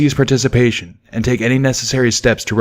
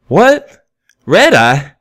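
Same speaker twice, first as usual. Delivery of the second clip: much higher and louder, laughing it off; laughing disbelief; 8 semitones higher, 6 dB louder, much slower than usual. A narrator's reading. Stallion laughs at Pip's mistake, in riotous disbelief. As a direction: crack up in disbelief. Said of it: "broke into a too riotous laugh".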